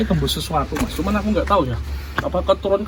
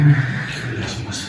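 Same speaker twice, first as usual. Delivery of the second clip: whispered awe; much slower than usual. Real, not acted. Hushed awe in bat cave.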